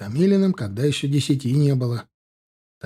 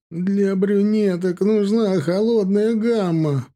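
higher, slow fretful lament; a panicking stylist lamenting, slower; despairing; 7 semitones higher, slower than usual. A narrator's reading. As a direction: fret it out helplessly.

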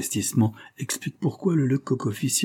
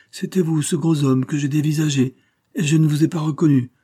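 amazed; 6 semitones higher, 4 dB louder than usual. A narrator's reading. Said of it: "reprit l'agent émerveillé".

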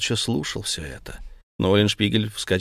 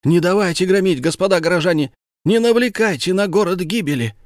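louder, higher desperate call; shouting appeal; 8 semitones higher, 4 dB louder than usual. A narrator's reading. Ulenspiegel shouts vainly from the pulpit, raised. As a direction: plead over the noise of the mob. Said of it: "Тщетно кричал Улиншпигель".

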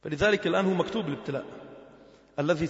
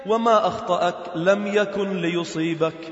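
slow, level intoned quotation; hadith recitation; slower than usual. Acted. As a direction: quote it deliberately as sacred text. (تلاوة الحديث بتمهّل)

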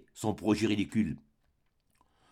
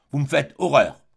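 louder, final rebuke; indignant outburst, louder on horreur; 6 dB louder than usual. Acted. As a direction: throw horreur at him. Baronne rejects Crevel outright.

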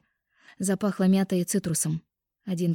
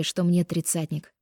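ordinary delivery, nothing marked

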